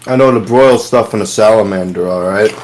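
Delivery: mouth full. Real, not acted. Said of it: "don't say it again with your mouth full".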